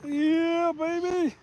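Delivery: high, thrilled little yelp; excited cheer. Real, not acted. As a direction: celebrate the catch. Cheering a caught fish.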